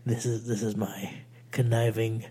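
creepy, breathy villain whisper; conniving whisper. Pretend. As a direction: whisper like a schemer about to win. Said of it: "conniving, close to victory voice".

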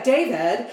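"David" with affected, peculiar vowels; fancy A's. Retold or imitated. Host echoing Moira's peculiar speech, "David" with fancy vowels. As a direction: say "David" in Moira's made-up accent. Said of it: "the fancy A's".

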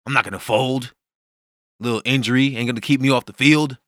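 talking through a bitten tongue; pushing on despite a sore tongue. Real, not acted. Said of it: "That hurt a little bit".

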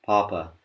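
papa with a loose breathy p like an American; aspirated papa; English papa. Shown as a demonstration. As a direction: let the air come out loosely on papa. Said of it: "if you just say it like an English speaker".

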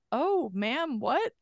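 a hint of puzzled teenager; bewildered teenager. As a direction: imitate a baffled teenage boy a little. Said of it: "this sixteen-year-old".

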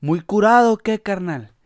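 cholo taunt. Retold or imitated. Narrator imitating the cholo taunting him, mock thug jeer. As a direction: jeer like a street tough. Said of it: "Y luego me dice".

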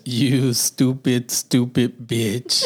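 slow, drawn-out cartoon insult; Roger impression. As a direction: drag out each word like a sitcom alien. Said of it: "where Roger, you know, he says".

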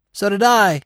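high, loud bird's croak. A narrator's reading. Jay chiming in from above, loud croak. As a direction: croak it out loudly from a branch. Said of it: "came a croak from above".

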